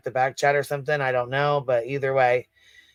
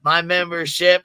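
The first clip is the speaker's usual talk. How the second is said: drawn-out "My membership" with a mocking rise; incredulous repeat; 3 semitones higher, 5 dB louder than usual. Real, not acted. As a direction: repeat "My membership" slowly, louder, in disbelief.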